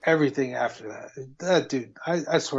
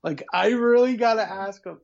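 panicky, rising higher; nervous character voice; 4 semitones higher than usual. Retold or imitated. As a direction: voice him as scared and trapped. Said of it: "he's like".

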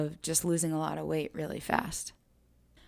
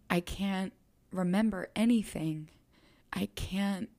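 a touch of tearful pleading; mild tearful quote to mom; retold crying. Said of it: "I remember just crying and crying to her".

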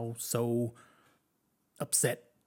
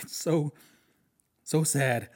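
breathy unvoiced whisper; 3 semitones higher, slower than usual. Real, not acted. Reviewer recalling a horrific death, whispering. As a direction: drop to a hushed whisper.

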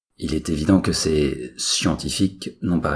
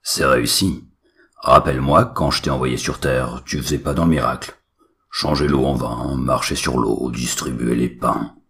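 scolding god father; 5 dB louder than usual. Acted. God scolding his son.

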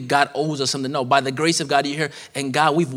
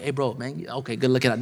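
casual grateful friend; 3 semitones lower, 5 dB quieter than usual. Acted.

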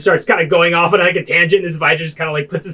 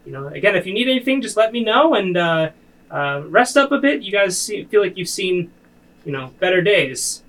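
high, halting, hesitant advisor voice; a nervous helper, much higher, stumbling over his words; Romulus the advisor; 3 semitones higher than usual. Acted. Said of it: "He says".

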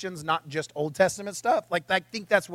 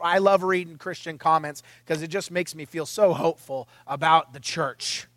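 sarcastic; 4 semitones lower than usual. Pretend. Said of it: "I couldn't say that with a straight face".

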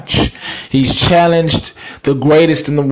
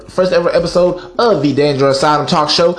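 announcer; 2 semitones higher than usual. Acted. Signing off the show.

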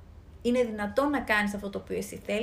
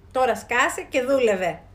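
slow, louder mock-bossy command; joking slogan; 5 dB louder, slower than usual. The crisis slogan quoted to workers, mock bossy. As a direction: bark the slogan with a wink. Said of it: "χαριτολογώντας".

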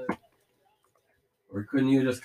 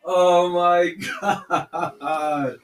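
laughing disbelief; 3 semitones higher, 6 dB louder, much slower than usual. Real, not acted. Stunned by the play, laughing.

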